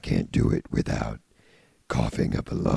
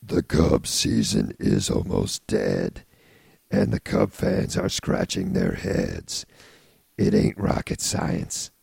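low voice poem. Acted. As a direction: recite it in a put-on low voice. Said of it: "say it in a really low voice".

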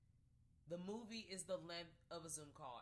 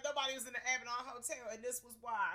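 spooky movie voice; 6 semitones higher, 8 dB louder than usual. Retold or imitated. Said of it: "They be like".

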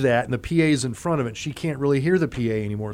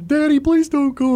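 put-on high, louder pleading little-girl voice; imitating crying toddler; 13 semitones higher, 5 dB louder than usual. Toddler daughter begging daddy not to leave, high pleading cry. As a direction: beg like a tearful two-year-old. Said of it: "And she's crying".

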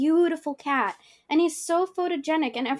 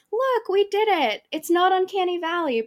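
mock boast; 6 semitones higher than usual. Mocking overconfident book covers.

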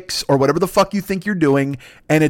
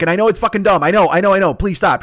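higher, louder mock pleading; pleading exasperation; 5 semitones higher, 4 dB louder than usual. Host fending off imagined critics, mock-exasperated pleading. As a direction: cut off imagined complaints, exasperated.

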